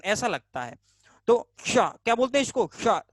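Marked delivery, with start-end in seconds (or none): 1.7-1.9 "शा" with the tongue pressed towards the palate; palatal "sh". Shown as a demonstration. Teacher shows students the palatal sound, hushing "शा". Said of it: "ऐसा लगता है जैसे शाम". 2.8-3.0 "शा" hushed off the palate, like spitting; palatal "sh". Shown as a demonstration. Teacher repeats the sound for students, spitting palatal "शा". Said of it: "जैसे थूक रहे हो किसी पर".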